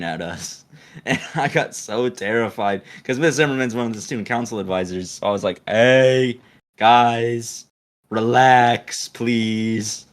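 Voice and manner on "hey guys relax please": drawn-out plea. Retold or imitated. Retold plea to touchy friends.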